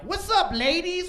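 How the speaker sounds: put-on high, loud drunk greeting. Drunk twelve-year-old greeting the eighth-grade girls in a high voice. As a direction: squeak it out like a tipsy kid. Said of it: "with, like, my high voice".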